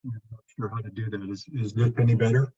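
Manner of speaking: muffled, like through a wall. Real, not acted. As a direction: still muffled on the line. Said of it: "Not really".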